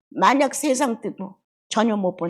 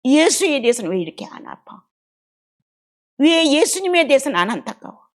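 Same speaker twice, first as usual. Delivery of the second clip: self-rebuke; 5 semitones higher, 5 dB louder than usual. Real, not acted. Rebuking herself before congregation.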